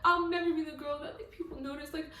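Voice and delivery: high-pitched imitation of a girl's thoughts; acted self-pitying inner voice; heroine's inner monologue. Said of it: "in her internal monologue".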